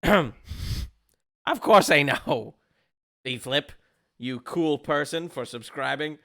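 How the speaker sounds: game master redoing the line in Zippo's proper voice; corrected Zippo voice. Acted. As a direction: drag the words out as Zippo. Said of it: "that's not his voice".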